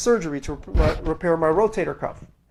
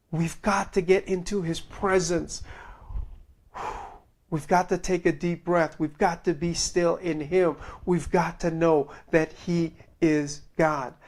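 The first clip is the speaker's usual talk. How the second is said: soft pastoral exhortation; 3 semitones lower, 6 dB quieter than usual. Real, not acted. Softer pastoral close.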